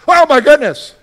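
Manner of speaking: loud, high yelp of alarm; alarmed exclamation. Retold or imitated. Preacher acting out his panic at the cancelled muffin timer, loud startled cry. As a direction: blurt it out in sudden panic. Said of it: "this is how George reacts to the tribulation".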